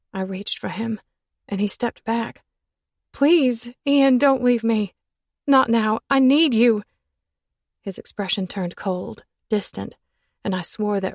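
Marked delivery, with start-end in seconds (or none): 3.1-6.8 high, loud pleading; cling to him with your voice; desperate begging. Acted. Woman begging Ian not to leave, high and loud.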